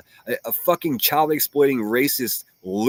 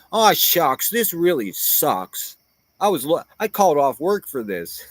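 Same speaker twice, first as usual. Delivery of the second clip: mock disappointment; 5 semitones higher than usual. Mocking disappointed opponents.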